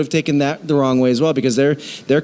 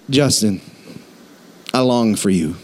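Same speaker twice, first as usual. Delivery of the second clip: mock creepy longing; 5 semitones lower than usual. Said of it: "I'm like".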